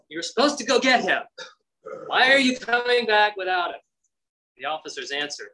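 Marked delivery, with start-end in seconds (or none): 0.1-3.8 mild mock anger. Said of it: "They're mad".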